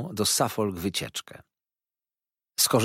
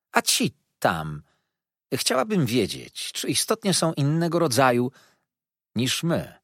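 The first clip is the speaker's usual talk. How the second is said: put-on sweetly insincere, pitched up young woman; mock-naive lady; 5 semitones higher than usual. Miss Dartle teasing Mrs Steerforth, sweetly insincere. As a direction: feign innocent puzzlement.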